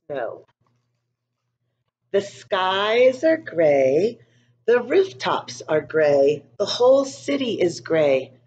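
put-on calm storybook narration for young kids; story reading. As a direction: read it gently to a class of children. Reads picture book to class.

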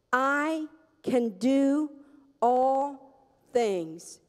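very slow, each word set apart; slow emphatic quote. Shown as a demonstration. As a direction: lay out every word slowly for them to follow. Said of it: "Say it with me".

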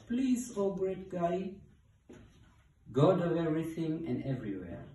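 high, pleading hippo voice; hopeful begging hippo. A narrator's reading. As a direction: beg a great god for a favour. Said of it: "begged Hippo hopefully".

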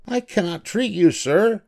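high-pitched, indignant little mouse shout; mock shout. A narrator's reading. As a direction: call out high without much added volume. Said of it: "Doctor DeSoto shouted".

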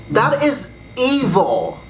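slow, drawn-out disgust; appalled condemnation. Real, not acted. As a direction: stretch each word in disbelief. Condemning the writer's confession.

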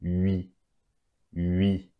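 "ui" as French u gliding into i; French ui sound. Shown as a demonstration. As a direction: model the "ui" glide slowly and clearly as one sound. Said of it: "combination of U and I is pronounced as".

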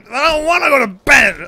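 tantrum. Retold or imitated. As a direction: whine it like a sulky kid. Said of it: "a bit of a tantrum".

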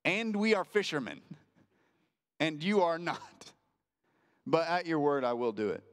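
sarcastic tone. Retold or imitated. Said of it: "sarcastic tone".

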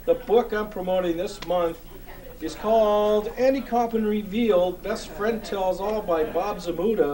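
hosting a book corner segment for the audience, in a hammed-up host voice; hammed-up host intro. Host introducing his book of the month, hammed-up announcer voice.

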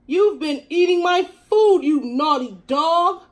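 loud, high cat scolding the dog; hissed scolding. A narrator's reading. Cat Sarah Jane hissing at the dog who ate her food. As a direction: hiss it out at the naughty dog. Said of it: "hissed Sarah Jane".

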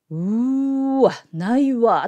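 dismayed uwa. Shown as a demonstration. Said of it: "っていう時ね".

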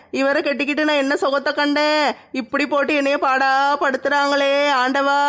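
theatrical crying complaint; tearful lamenting. Acted. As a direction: bemoan your fate in a sing-song whine. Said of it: "திடீர்னு ஏன் அழுது புலம்பிட்டு கிடக்க?".

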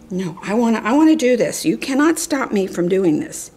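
mildly acted snappy refusal; defiant puppy. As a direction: voice a stubborn puppy talking back. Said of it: "she snaps at me".

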